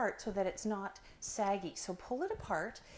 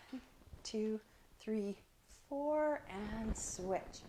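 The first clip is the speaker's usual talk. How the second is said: holding breath; 5 dB quieter, much slower than usual. Real, not acted. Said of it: "I'm holding my breath".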